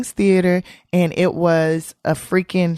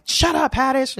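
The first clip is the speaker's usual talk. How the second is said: higher-pitched mock snap; going off; 7 semitones higher than usual. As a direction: imitate an irritated comic. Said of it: "he was going off on me".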